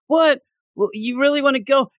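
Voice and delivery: high surprised question. Retold or imitated. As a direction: sound caught off guard. Tony answering in comic.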